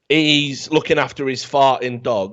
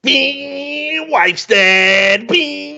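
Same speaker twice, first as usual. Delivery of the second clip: high sing-song bing bing; mock car chime; 12 semitones higher, 3 dB louder, much slower than usual. Telling a mate about John Wick's car, mock chime voice. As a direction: chirp it like a dashboard chime.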